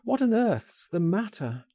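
high, urgent question; alarmed cry. A narrator's reading. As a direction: cry out in baffled concern. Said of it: "I cried".

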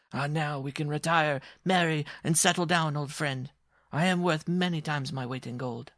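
high, jubilant dwarf; dwarf crying out. Acted. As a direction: announce good fortune to an old friend. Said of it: "and cried out".

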